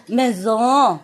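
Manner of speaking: MAISON ending on an open nasal "oh", N dropped; French maison. Shown as a demonstration. Teaching learners to cut the N, French maison. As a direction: stretch the end of maison, cutting the N. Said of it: "And you just say".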